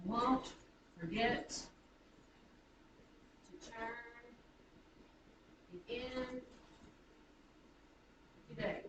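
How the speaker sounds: "Won't forget to turn it in today" broken into feet with long pauses; foot by foot, stressing won't, get, turn, in, day in "Won't forget to turn it in today"; iambic scansion. Shown as a demonstration. Teacher gives an iambic example, pausing between feet of "Won't forget to turn it in today". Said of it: "give you a sentence here, iambic".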